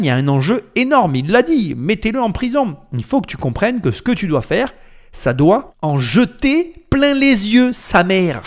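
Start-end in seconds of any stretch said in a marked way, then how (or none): 5.8-8.4 slow, high, drawn-out exclamation; emphatic hype. Real, not acted. Commentator telling viewers a product must dazzle, emphatic hype. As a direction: stretch it out high for maximum punch. Hammering home his point, then laughs.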